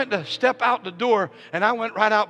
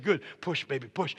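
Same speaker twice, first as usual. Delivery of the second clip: very soft, low urging; gentle coaching; 6 semitones lower, 7 dB quieter than usual. Retold or imitated. Husband to wife during contraction, gentle coaching. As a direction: coax her quietly to push.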